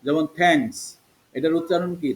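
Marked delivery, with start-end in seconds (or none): 0.4-0.8 "থ্যাঙ্কস" starting with aspirated t; teacher's example, "থ্যাঙ্কস" with breathy-release t. Shown as a demonstration. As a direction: model "থ্যাঙ্কস" with a clear থ. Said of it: "এবার করছি থ".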